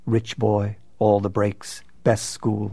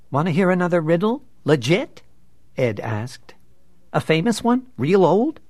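sly, cheeky offer pitched up high; eager taunting pitch; 8 semitones higher, 3 dB louder than usual. A narrator's reading. Edward baits the bully with a high, eager taunt. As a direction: voice jumps high and quick.

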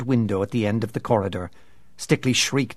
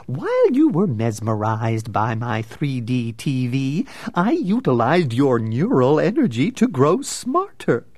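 gleeful; 2 semitones higher, 4 dB louder than usual. Acted. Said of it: "Nigma smiled gleefully".

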